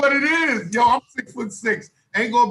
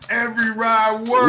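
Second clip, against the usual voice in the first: emphatic boast; 4 dB louder than usual. Real, not acted. Boasting about rides, insisting.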